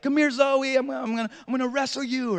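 a hint of a kid calling his sister; lightly voiced excited boy. Voices son chasing his sister.

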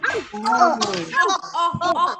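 Oh, oh, oh said as drawn-out open o vowels; modelling the o sound. Shown as a demonstration. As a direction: demonstrate the o sound for children. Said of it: "do the action for the O sound".

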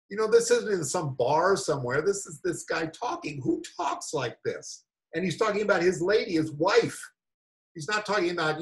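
ordinary talk, nothing marked

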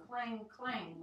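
drawn-out clang, clang; slow clanging. Acted. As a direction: ring out each clang. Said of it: "went the brass-footed pot".

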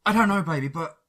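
distraught. Acted. Dan answers Faye distraught.

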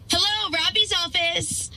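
slow, sing-song phone greeting; secretary picks up the boss's line sweetly; sweet receptionist. Acted. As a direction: answer the phone like a perky receptionist.

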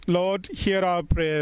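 "Lord, hear our prayer." said slowly, weight on hear, falling at the end; slow cued response. Shown as a demonstration. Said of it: "Your response shall be".

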